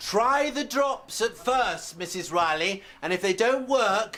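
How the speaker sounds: high-pitched, slow shouting. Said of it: "was I shouting?".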